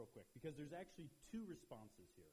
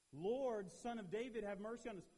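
louder, higher cry; crying out more; 7 semitones higher, 8 dB louder than usual. A narrator's reading. Blind men crying over the crowd, loud. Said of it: "they cried out all the more".

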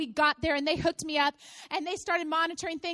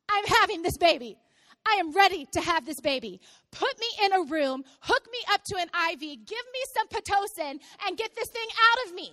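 louder, insistent retold orders; adamant demand; 4 dB louder than usual. Mother-to-be refusing to leave the hospital, acted adamant demand. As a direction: dig in and demand, mock outrage.

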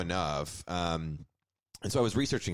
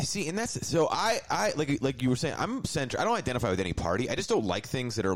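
a little worked up, pitched higher; raised voice; 4 semitones higher than usual. Real, not acted. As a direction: push the voice up as you argue your point. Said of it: "and I raised my voice".

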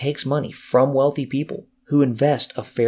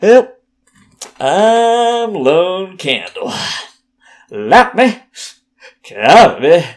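put-on Southern accent; 7 semitones higher, 6 dB louder than usual. Signing off to viewers in a hammed-up Southern accent. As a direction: ham up a vague Southern accent, much higher and louder. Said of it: "Some sort of Southern accent".

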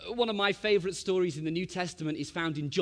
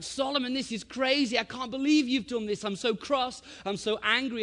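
raised, higher-pitched retold scolding; angry telling-off; 7 semitones higher, 3 dB louder than usual. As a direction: act out a cross dad letting rip. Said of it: "started to let rip at him".

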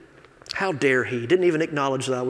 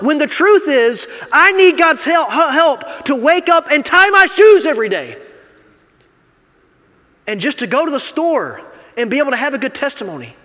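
loud, higher preacher's climax; full-force preaching; 10 semitones higher, 8 dB louder than usual. Acted. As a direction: preach it out to the congregation with conviction.

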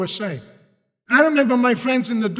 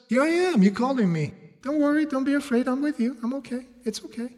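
acted gentle reassurance; reassuring; 4 semitones higher than usual. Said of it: "I can see that reassurance in the words".

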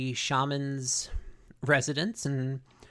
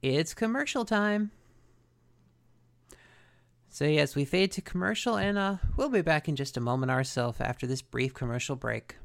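show host voice. Pretend. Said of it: "can you guess what time it is, folks?".

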